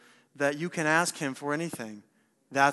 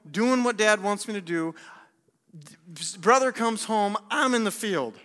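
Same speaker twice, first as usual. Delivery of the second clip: mildly indignant, higher-pitched voice; upset older brother; 3 semitones higher than usual. Acted. Older brother complaining about the homecoming, upset. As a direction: make the aggrieved case of the dutiful son. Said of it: "How upset would you be".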